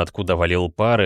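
ordinary delivery

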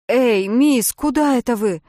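loud, high yell after her. Acted. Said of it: "завопил Джим Доннелли". (громкий окрик вслед)

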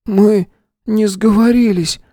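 a schoolboy pleading his innocence to the gunman, timidly; frightened boy's babble. A narrator's reading. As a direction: stammer it out like a scared little boy. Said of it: "пролепетал один из мальчиков".

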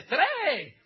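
high, loud mock shout; retold final count. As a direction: shout the last count before firing. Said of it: "saca una pistola y le dice".

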